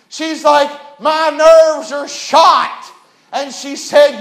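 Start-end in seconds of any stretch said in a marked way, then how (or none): 1.0-2.9 slow, high, louder complaint; fed-up mother. Retold or imitated. Mother telling her son her nerves are gone, slow and loud. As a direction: stretch each word like an exhausted mom. Mother scolding rowdy kids.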